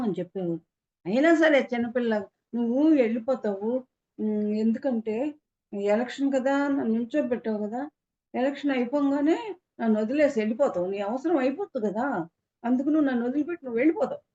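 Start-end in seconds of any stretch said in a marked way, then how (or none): 2.5-14.2 retold tearful plea. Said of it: "అని ఏడ్చేదాన్ని".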